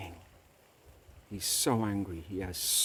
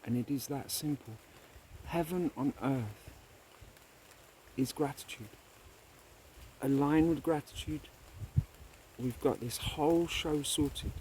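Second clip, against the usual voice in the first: uplifted moral; 5 semitones higher than usual. Real, not acted.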